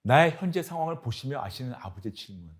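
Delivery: usual speaking voice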